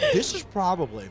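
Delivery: talking through a mouthful of pizza; words muffled by a bite; mouth full. Real, not acted. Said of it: "talk with my mouth full".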